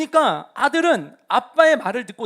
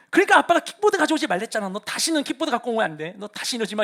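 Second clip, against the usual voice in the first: angry scolding dad. Retold or imitated. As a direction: snap at the kid half-mockingly. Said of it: "원망과 분노가 먼저 일어나요". (아이에게 화내는 아빠, 크고 높게 꾸짖듯)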